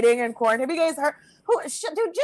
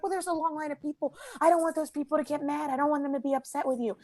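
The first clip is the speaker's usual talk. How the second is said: softly voiced, fretting old lady; worried old lady; 7 dB quieter, faster than usual. Old lady worrying about the line, soft and anxious. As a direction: fret quietly, lightly as an old lady.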